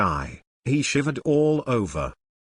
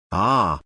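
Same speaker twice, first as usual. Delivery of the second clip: pained cry; 4 semitones lower than usual. A narrator's reading. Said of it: "Shui exclaimed".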